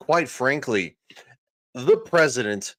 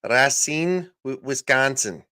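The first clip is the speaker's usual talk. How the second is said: put-on a light, half-hearted Wisconsin accent on "Racine, Wisconsin"; attempted Wisconsin accent. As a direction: try out a Wisconsin accent, not too hard. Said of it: "you need to say it with a Wi-, Wisconsin accent".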